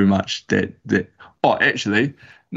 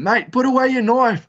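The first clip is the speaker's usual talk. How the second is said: yelling a warning. Retold or imitated. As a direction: yell at your mate to put the knife away. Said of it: "we're yelling at him".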